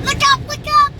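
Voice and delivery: high excited calling. Real, not acted. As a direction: call out urgently, thrilled.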